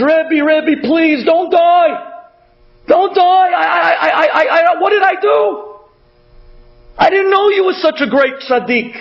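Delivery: high, desperate begging; retold screaming plea. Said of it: "he's screaming to him".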